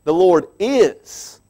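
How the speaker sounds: slow emphatic the Lord is; stress on Lord. Shown as a demonstration. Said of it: "I like that next word too".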